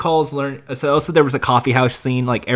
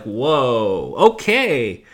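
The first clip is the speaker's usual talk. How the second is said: Cockney slip; 4 dB louder, slower than usual. Retold or imitated. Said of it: "a little British Cockney going on".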